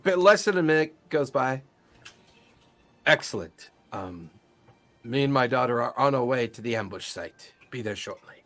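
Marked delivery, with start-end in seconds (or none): 3.1-8.3 low, measured character voice; Korgoth's reply. Acted. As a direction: drop low and speak tersely as the commander answering.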